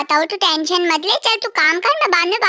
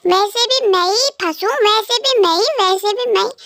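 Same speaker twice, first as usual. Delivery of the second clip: higher, sweet wife's voice, wheedling; coaxing wife voice; 4 semitones higher than usual. Acted. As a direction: coax the husband into the market trip. (पत्नी पति को बाज़ार ले जाने के लिए मनाती है, ऊँची मीठी आवाज़ में)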